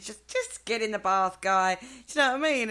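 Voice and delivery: hammed-up Irish brogue that drifts north; Irish accent. Host tries a loud Irish accent telling a giant into the bath. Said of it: "I tried to do an Irish accent there".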